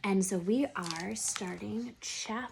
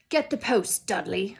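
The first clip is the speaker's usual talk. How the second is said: Uncle Vernon; 6 dB louder than usual. Acted. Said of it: "said Uncle Vernon from behind his paper".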